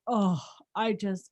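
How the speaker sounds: slow, drawn-out mock relief; slow sigh of mock contentment; imitating grateful husband. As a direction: gush slowly, imitating a pleased husband. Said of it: "such a good impression of me".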